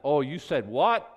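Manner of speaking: loud, slow mock disbelief; mock shocked Jesus. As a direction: toss it off as Jesus, amused. Jesus brushing off insult.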